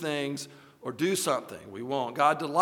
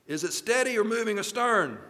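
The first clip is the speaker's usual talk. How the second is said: raised captain's call across the bridge; 6 semitones higher, 4 dB louder than usual. A narrator's reading. Captain calls to his lookout, raised voice. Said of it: "the captain called out".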